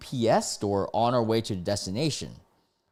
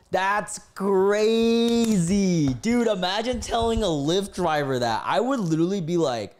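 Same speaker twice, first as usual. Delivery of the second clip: high, loud, stretched-out disbelief; amazed; 10 semitones higher, 5 dB louder than usual. Real, not acted. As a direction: exclaim it in astonishment, dragging out crazy. Amazed reaction to the story.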